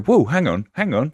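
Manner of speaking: high, startled stop-right-there; startled whoa. Retold or imitated. Host mimicking a listener's startled reaction. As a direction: pull up short in surprise. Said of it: "And you go".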